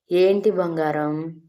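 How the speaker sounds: slow, wide-eyed innocent ask; a hint of put-on innocence toward her husband. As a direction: play it sweetly innocent, drawn out. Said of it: "అని అమాయకంగా మొహం పెట్టి అడిగింది".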